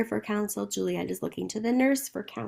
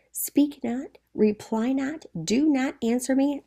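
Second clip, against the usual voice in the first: "Speak not, reply not, do not answer me" in separate higher-pitched commands; emphatic; 3 semitones higher than usual. Acted. Capulet silencing his daughter, emphatic on "Speak not, reply not, do not answer me". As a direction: hit each of "not", "not", "not" as its own firm order. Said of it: "That is so emphatic".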